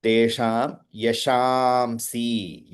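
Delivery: slow, deliberate Sanskrit recitation of "Tesham Yashamsi"; careful recitation. Shown as a demonstration. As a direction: chant "Tesham Yashamsi" slowly, syllable by syllable. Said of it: "Tesham again".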